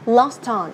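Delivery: "Lost on" run together, t onto the vowel; "Lost on" joined without a gap; linked words. Shown as a demonstration. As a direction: say "Lost on" as los-ton. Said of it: "đọc nối luôn nha".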